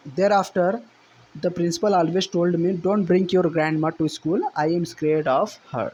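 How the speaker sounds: slow, deliberate reading aloud of the English passage; slow text reading. Shown as a demonstration. Teacher reading the textbook passage to students, slow and deliberate. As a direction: read each phrase out slowly for the class.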